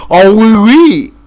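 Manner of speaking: loud, slow hammed-up French voice; mock French. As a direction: ham up a fake Frenchman, drawn out. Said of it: "They're over in France".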